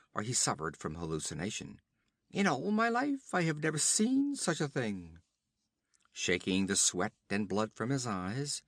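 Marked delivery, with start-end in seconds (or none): 2.3-5.2 hoch, etwas lauter, voll Verwunderung; staunender Reiter. Acted. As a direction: stolzer Räuberhauptmann, ehrlich verblüfft. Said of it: "Either a voice spoke".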